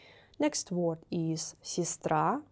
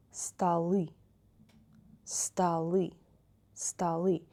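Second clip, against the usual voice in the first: столы with the stress on the final ы; teacher modelling the stress shift in столы; stress on the last syllable; slower than usual. Shown as a demonstration. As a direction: say столы as sta-LY, stressed at the end. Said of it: "change place of accent".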